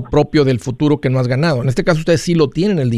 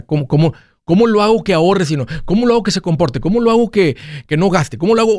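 pitched up, exasperated questions; 4 semitones higher than usual. Retold or imitated. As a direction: mimic a frustrated spouse. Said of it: "cuando tienes un terco en tu vida".

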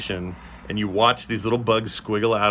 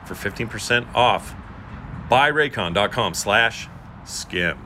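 ad read. Acted. Sponsor ad read.

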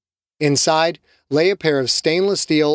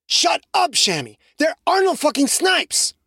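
much higher snapping shout; angry outburst; 14 semitones higher than usual. Acted. Carlos snapping at Shamiqua, higher angry voice. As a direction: cut her off hard.

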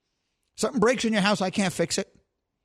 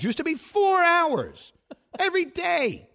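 laughing boast; 12 semitones higher, slower than usual. Real, not acted.

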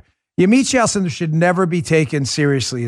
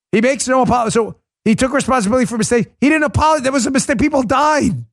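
raised, indignant pitch all through; worked-up scoffing rant; heated rebuttal; 5 semitones higher than usual. Real, not acted. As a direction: hammer back at her claims. Angrily rebutting the reporter's claims.

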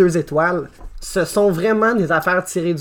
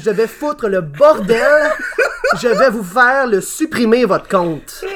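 angry review read; 4 semitones higher than usual. Acted. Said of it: "ce que Gordius dit".

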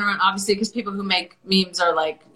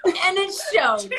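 put-on valley girl; 7 semitones higher than usual. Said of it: "in a Valley Girl voice".

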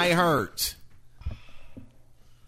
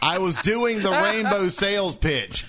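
laughing; 5 semitones higher than usual. Real, not acted. Laughing explanation.

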